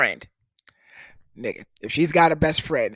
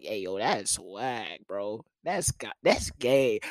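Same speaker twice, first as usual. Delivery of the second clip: casual mock remark; 6 semitones lower, 6 dB quieter, slower than usual. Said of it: "I just mean like".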